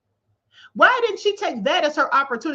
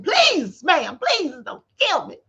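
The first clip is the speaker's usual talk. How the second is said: mock begging. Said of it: "Now a rapper's begging and pleading".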